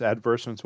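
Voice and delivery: advertisements said as ad-VER-tis-ments; British pronunciation. Shown as a demonstration. Offering viewers both pronunciations, advertisements as ad-VER-tis-ments. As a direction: say advertisements with a short "tis", no "tize". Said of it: "whatever you wanna call it".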